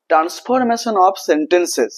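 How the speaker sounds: slow, deliberate spelling-out of transformation of sentences; teacher's slow dictation; slow emphasis. Shown as a demonstration. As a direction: draw out each word for the class. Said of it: "teacher drills key phrase".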